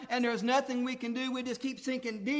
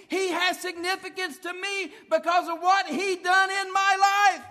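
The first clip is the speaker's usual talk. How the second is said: loud, impassioned sermon delivery; preaching at full force; 4 semitones higher, 8 dB louder than usual. Acted. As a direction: pour it out over the congregation.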